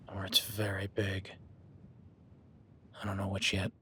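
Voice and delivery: hushed and wary; tense whisper. Acted. Hunter whispering to his partner about the unseen beast. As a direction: whisper so the thing won't hear.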